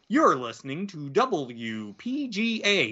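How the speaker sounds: slow, even call-letter read like a radio DJ; radio announcer read. Shown as a demonstration. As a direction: announce the station slowly on air. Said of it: "You say".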